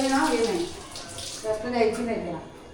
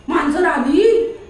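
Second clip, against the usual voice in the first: loud, drawn-out announcement; excited alert; 2 semitones higher, 5 dB louder, much slower than usual. Pretend. Owner announcing the cat to the dog, excitedly. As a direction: call out the cat's arrival to stir him up.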